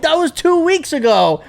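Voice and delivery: high-pitched indignant denial; imitating a flustered denial; mock protest. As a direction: protest it like a wronged boyfriend. Acting out player's protest in quarrel.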